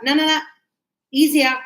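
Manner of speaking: teacher setting students straight, firmly; correcting firmly. Retold or imitated. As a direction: correct them with emphasis. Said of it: "I was like".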